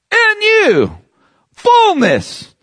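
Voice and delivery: soaring high, held-out words; preacher swept up in fullness; ecstatic preaching. Acted. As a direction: lift it up as if overflowing. Preaching climax.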